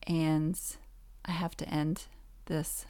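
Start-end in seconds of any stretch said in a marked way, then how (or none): 1.3-2.9 tired hoarse throat, fading to a whisper. Real, not acted. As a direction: voice giving out, hoarse and strained. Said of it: "I'm losing my voice".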